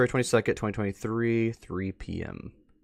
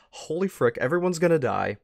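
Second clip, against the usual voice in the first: mock panic; 6 semitones higher than usual. Real, not acted. Panicked reaction to the news.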